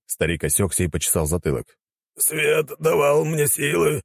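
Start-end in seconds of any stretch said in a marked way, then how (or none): 2.2-4.0 slow, high-pitched mantra; puzzled old warrior's slow chant; dazed zealot. A narrator's reading. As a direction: intone it high and drawn out. Confused old warrior corrects his mantra.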